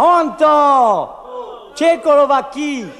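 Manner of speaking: loud called-out greeting; shouted across the bar; shouting entrance. Acted. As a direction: burst in yelling the name. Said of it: "entré en criant".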